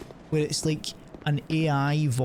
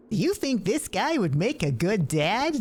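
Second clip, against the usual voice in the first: higher robotic narrator voice; mock AI voice; 6 semitones higher than usual. AI voiceover asking about the streamer, higher voice. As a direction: read it like a cheesy AI voiceover. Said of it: "have an A I voice over it and go".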